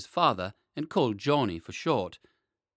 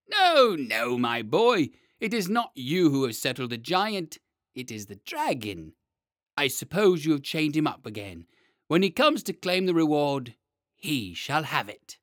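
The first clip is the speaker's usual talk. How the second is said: pompous mayor; 2 semitones higher, 5 dB louder than usual. Acted. Mayor refuses children reward.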